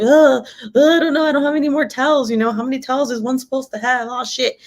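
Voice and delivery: high, rushed, flustered babble; mock panic. Mother reenacting running out of towels, flustered and high. Acts out frantic rush for towels.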